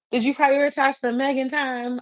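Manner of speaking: ordinary delivery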